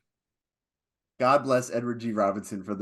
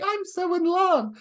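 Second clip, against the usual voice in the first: Nefertiri. Retold or imitated. Mimicking lovesick Nefertiri tossing petals.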